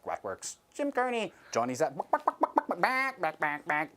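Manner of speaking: clucking robot chicken; robot hen stuttering through names; glitching robot chicken. Pretend. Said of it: "a robot doing chicken noises".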